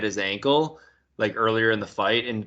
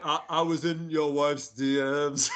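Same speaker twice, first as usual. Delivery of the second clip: light mock Irish brogue; a half-hearted cocky Irish taunt; McGregor Irish accent; 3 semitones higher, 3 dB quieter than usual. Friend trying his own McGregor impression in Irish accent. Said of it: "how do you guys do a McGregor accent?".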